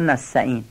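نستعین said wrongly as "nassa'in"; dropped t. Shown as a demonstration. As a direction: swallow the t of نستعین. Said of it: "ته نستعینم نمیخونن".

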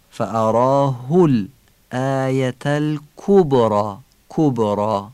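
فاراه الآیة الکبری slowly, with a crisp rounded u; careful recitation. Shown as a demonstration. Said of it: "ضمه ها رو هم که باید فصیح بگیم".

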